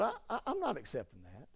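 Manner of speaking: God brushing off a fake complaint, low and fast; stern God voice.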